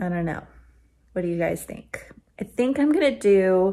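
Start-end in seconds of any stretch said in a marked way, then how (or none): 2.4-3.7 voice breaking and cracking mid-phrase. Talking to viewers about knitting a sweater, voice cracking. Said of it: "my voice cracked".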